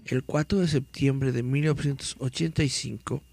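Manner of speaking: dramatic read-aloud of a mystery article. Acted. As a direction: read it like a creepy news report.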